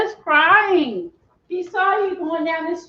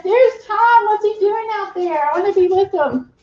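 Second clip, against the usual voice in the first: voicing the dog; 6 semitones higher than usual. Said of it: "he's like".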